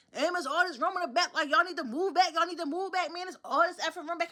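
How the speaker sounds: mock rowdy teens shouting move back; a hint of brash young guys calling out; loud young riders. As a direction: do the rowdy kids hollering down the bus. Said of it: "the Y Ns get on with the".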